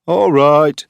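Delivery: loud, high call from the father; father's voice. A narrator's reading. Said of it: "came the father's voice".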